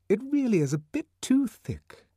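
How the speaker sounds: high, indignant society lady; indignant headmistress. Acted. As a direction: sniff it out as a prim lady. Headmistress gossiping.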